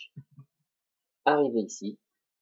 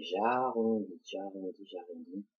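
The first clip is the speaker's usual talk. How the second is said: drawn out; 2 semitones lower, 4 dB quieter than usual. Shown as a demonstration. Voicing the pen stroke as drawn.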